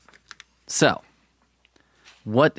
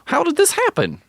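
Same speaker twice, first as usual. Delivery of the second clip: high, strained squeaky voice, climbing as it goes; shrill-pitched cartoon Daredevil; Daredevil impression; 12 semitones higher than usual. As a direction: squeal it out like a whiny hero. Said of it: "That's my Daredevil impression".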